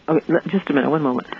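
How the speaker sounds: sleepy voice. Real, not acted. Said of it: "I have my sleepy voice".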